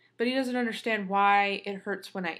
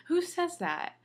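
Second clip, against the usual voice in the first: indignant; 9 semitones higher, slower than usual. Real, not acted. Indignant rant about rude surgeon.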